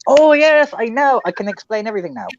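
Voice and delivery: a high, fast mock of Jelly Duck finally understanding; imitating Jelly Duck. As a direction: ham up his sudden grasp in a quick burst. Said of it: "Jelly Duck's turned around and gone".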